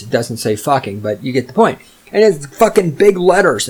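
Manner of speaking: ordinary talk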